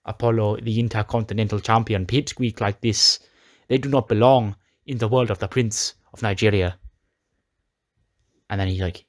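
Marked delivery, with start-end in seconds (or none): 0.0-6.8 imitated Nigerian accent, weighty and proclamatory. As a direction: put on a wrestler's proud Nigerian accent. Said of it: "he'd do the accent like".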